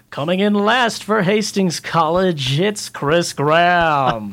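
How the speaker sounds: slow, drawn-out announcer call; mock stadium announcer, drawn out. Announcer mocking the runner who came last, slow and drawn out. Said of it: "That's kinda the same voice I used to make fun of you".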